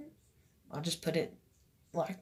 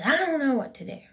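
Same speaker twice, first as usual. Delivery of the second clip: retold holler; 6 semitones higher, faster than usual. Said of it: "she hollers out again".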